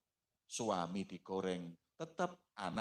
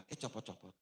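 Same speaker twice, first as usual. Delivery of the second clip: startled latah blurt; 10 dB quieter, faster than usual. Retold or imitated. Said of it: "Ibu-ibu kalau kaget nggak bismillah".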